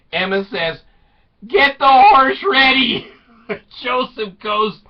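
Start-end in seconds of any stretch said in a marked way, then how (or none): 1.5-3.1 high, loud comic command; urgent mock shout. Wife to husband before getaway, urgent mock shout. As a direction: shout the order as if fleeing.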